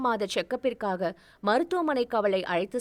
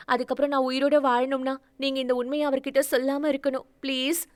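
put-on higher, fast, begging young woman; desperate pleading; 4 semitones higher, faster than usual. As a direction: rush the plea out, desperate not to be betrayed. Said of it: "கமலாவிடம் கெஞ்ச ஆரம்பித்திருந்தாள்". (வேகமான, உயர்ந்த குரலில் கெஞ்சல்)

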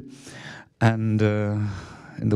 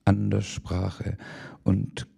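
slow, softening to a whisper at the end; slow fading close; 3 semitones lower, 6 dB quieter, much slower than usual. Acted. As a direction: let the last words die away slowly into a whisper. Closing lines of the poem.

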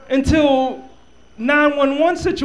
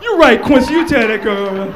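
friend's voice; 8 dB louder than usual. Retold or imitated. Friend voiced backing him.

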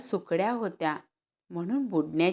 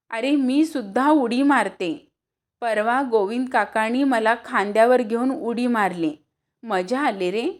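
put-on eager girl; 4 semitones higher, 5 dB louder than usual. Girl eagerly encourages Shyam.

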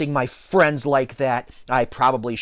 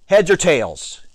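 louder, higher coin call; yelled call; 5 semitones higher, 5 dB louder, slower than usual. A narrator's reading. T J tossing the coin, yelled. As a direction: yell it out as the coin flies. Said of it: "he yelled as he threw the coin".

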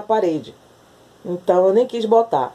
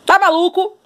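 1 playful scolding; 10 semitones higher, 4 dB louder than usual. Real, not acted. Scolding the crazed cat.

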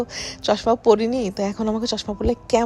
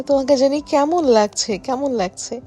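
higher, louder teasing husband; 5 semitones higher, 4 dB louder than usual. Retold or imitated. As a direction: tease her, raising the voice. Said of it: "বলে".

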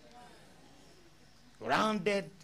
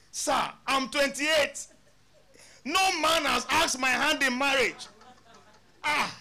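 high, loud, laughing through the story; retold with a loud high laugh; laughing retelling; 10 semitones higher, 7 dB louder than usual. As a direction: laugh while retelling the plea. Pastor retells woman's plea, laughing.

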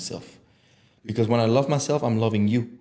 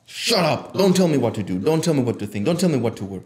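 firm, repeated angry commands; acted anger. Showing how to silence advice-givers, indignant commands. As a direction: fire off each refusal like an order. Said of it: "yeah, you get angry".

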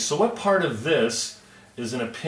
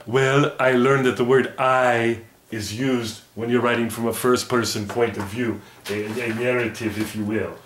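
puppet voice; 3 dB louder than usual. Acted. Puppet explains the lesson.

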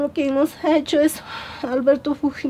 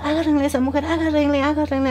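retold urgent command, pitched higher; urgent order; 4 semitones higher, faster than usual. Doctor to nurses to hold the woman down, retold urgent order. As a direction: imitate a doctor ordering restraint, higher but not shouted.

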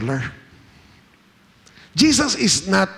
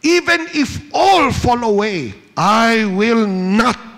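louder, higher, proud vow slowing on the end; bold declaration; 7 semitones higher, 6 dB louder, slower than usual. Acted. Peter boasting to Jesus that he will not fall away, loud and proud. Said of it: "Peter declared".

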